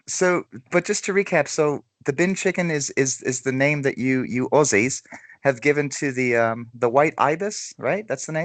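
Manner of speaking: put-on American trying an Aussie accent; light attempt at Australian English. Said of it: "Your accent's quite good".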